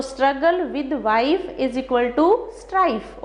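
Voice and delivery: very slow, even reading of the whole equation; slow mnemonic. Shown as a demonstration. Teacher slowly summing up the trick for students. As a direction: lay out each word so it sticks. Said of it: "तो कैसे relate करेंगे".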